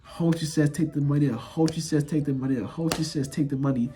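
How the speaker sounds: low, repeated plea like a chant; retold begging. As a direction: repeat the hope over and over, low. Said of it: "I'm just over here begging".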